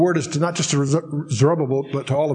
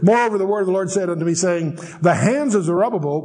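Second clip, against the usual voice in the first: formal, lifted verse reading; scripture reading; 2 semitones higher than usual. Acted. Teacher reads the word of the Lord to listeners, scripture reading. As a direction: read it out clearly as proclaimed word.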